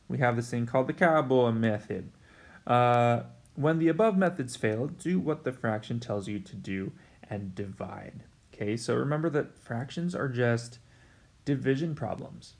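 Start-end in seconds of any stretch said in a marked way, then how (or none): 4.9-8.2 hushed, conspiratorial teacher tip; secret whisper. Shown as a demonstration. Teacher stresses the key rule.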